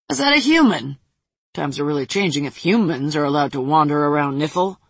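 lightly voiced brash demon; a hint of a cocky demon. Voices red-horned demon Chad.

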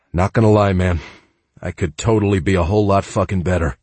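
trembling with grief; shaky voice. Acted. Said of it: "my voice shaking with my grief".

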